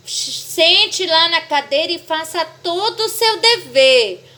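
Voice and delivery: lightly voiced mother laying down an order; mother giving an order. Mom telling child to do schoolwork, drawn-out command. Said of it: "Quando a mãezinha fala assim".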